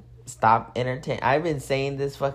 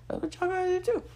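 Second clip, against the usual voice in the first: higher playful echo; higher playful repeat; 5 dB quieter, faster than usual. Real, not acted. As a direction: repeat "That's what y'all gotta do too" much higher in a light sing-song. Repeats advice, higher pitched.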